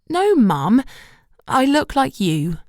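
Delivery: firmly. A narrator's reading. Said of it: "I said firmly".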